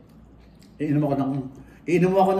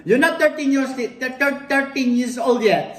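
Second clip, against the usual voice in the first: laughing tease; 7 semitones higher, 3 dB louder, slower than usual. Retold or imitated. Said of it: "Sabi ko".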